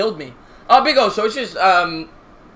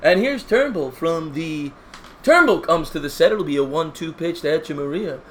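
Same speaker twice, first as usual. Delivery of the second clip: baseball announcer voice. Acted. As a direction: set up the pitch like a TV announcer. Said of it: "Patrick likes the baseball announcer voice".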